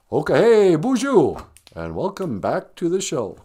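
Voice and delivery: teasing the co-host with a low put-on intro voice; impression of her co-host. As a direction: mimic your co-host welcoming viewers. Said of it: "I can do you".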